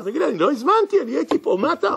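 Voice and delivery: mock shouting. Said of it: "הוא צועק עליו".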